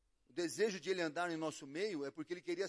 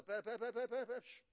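stopping him; 3 semitones higher, 6 dB quieter, faster than usual. Retold or imitated. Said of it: "No outro dia".

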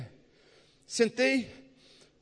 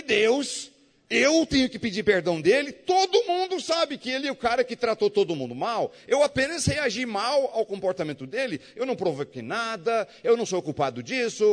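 put-on higher, protesting to God like a wronged child; indignant protest; 5 semitones higher than usual. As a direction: plead your innocence, indignant and high. Complaining to God in story.

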